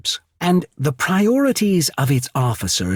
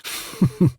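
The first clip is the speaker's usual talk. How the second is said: short chuckle; 6 semitones higher than usual. Acted. Envoy disdaining gilded latrines and fancy trappings, short dry chuckle. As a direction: chuckle briefly to yourself.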